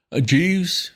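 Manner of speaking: high, harsh toff. A narrator's reading. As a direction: snap at the servant impatiently. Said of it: "he said harshly".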